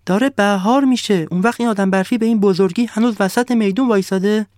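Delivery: the sun can't believe what it sees; indignant sun. Acted.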